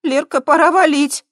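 urgent alarm. A narrator's reading. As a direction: hurry her out. Scared friend urging escape. (тревожно, громко и высоко)

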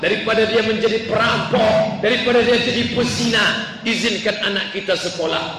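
imitating a father's angry retort; acted husband losing patience; raging father. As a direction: argue back in mounting insistence. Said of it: "akhirnya si bapak ngamuk".

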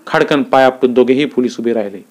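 ordinary delivery

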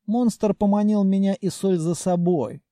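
plain reading voice

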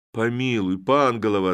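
loud cry for mercy; pleading cry. Acted. Constables to the village head, a loud pleading cry. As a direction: beg him loudly while bowing. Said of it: "закричали некоторые".

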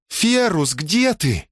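high calling out. A narrator's reading. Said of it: "позвала она громче".

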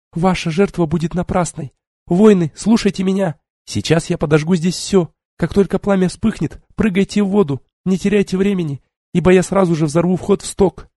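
rally the warriors with a cry; roaring rallying speech. Acted. Tiari commands the warriors.

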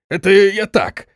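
high, hesitant excuse-making; backpedalling general. A narrator's reading. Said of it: "поспешил сдать назад генерал". (высоким голосом, сдавая назад)

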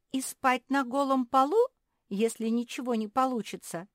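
high, loud, mildly tearful whine; voiced character's plaintive protest; whimpering complaint. A narrator's reading. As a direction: complain as if close to sobbing. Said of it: "всхлипнула Марсия".

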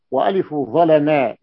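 "ظلما" drawn out as ẓalamaa; a-vowels and stretched ending on "ظلما"; active vowelling. Shown as a demonstration. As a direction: say "ظلما" slowly as ẓalamā, long final alif. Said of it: "فيكون الفعل مبنيا للمعلوم".

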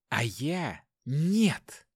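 slow, contemptuous spit of a line; spat out. Acted. Wife answers the inspector, spat-out scorn. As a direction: fling it at him like spit. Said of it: "бросила ... как плевок".

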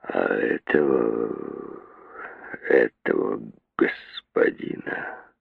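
very slow, low, hushed menacing words; the father turns, slowly and quietly, on his son; slow menace. A narrator's reading. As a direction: let each word fall slow and dangerous. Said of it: "Он медленно продолжал".

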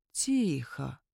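low, soft hush; calm the monster down with a soft word. A narrator's reading. Sandru softly hushes the king at swordpoint. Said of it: "мягко сказал он".

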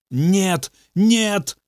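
high wailing no; lightly wailed moan. Acted. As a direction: moan in pain, pitch rising. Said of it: "стонал Бобби".

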